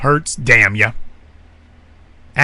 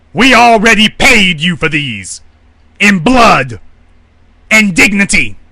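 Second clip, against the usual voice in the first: defiant speech; 3 semitones higher than usual. Retold or imitated. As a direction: build it up like a leader defying a foreign power. Voicing Mossadegh's defiant speech.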